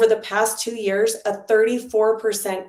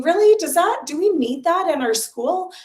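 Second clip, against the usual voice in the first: higher, louder retold doubt; questioning disbelief; 7 semitones higher, 4 dB louder than usual. Parent recalling doubts about school services, questioning disbelief. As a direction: replay your own doubtful reaction, pitched up. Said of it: "And I was thinking".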